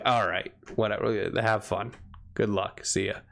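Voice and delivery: low, indifferent mock send-off; dismissive. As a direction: brush them off, unbothered. Player brushes off the angry woman.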